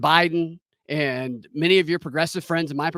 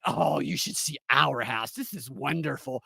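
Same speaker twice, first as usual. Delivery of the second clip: gushing agent; 2 semitones lower, 5 dB quieter than usual. Retold or imitated.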